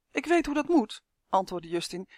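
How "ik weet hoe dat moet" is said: put-on eager boy. A narrator's reading. Boy Justin answers giant.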